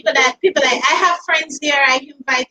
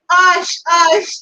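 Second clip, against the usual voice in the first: louder, higher aside to hush someone; real shushing, raised voice; 4 semitones higher, 5 dB louder than usual. Real, not acted. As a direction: break off to shush them sharply. Breaks off to shush others nearby.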